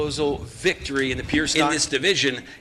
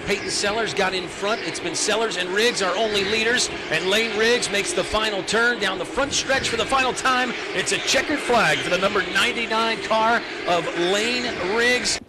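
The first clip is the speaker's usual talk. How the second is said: excited finish call; 5 semitones higher than usual. Real, not acted. Calling the checkered flag finish.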